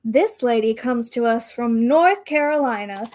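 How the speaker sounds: lightly rounded pageant host voice. Acted. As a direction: introduce like a pageant emcee. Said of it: "in her best M C voice".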